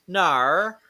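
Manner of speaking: drawn-out Australian "nar"; mock Australian accent. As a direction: imitate an Australian saying "nar". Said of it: "the only word in Australian I know".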